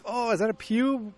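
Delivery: high-pitched mock puzzlement; acted surprised discovery. One guy spotting a hair in the pie, surprised.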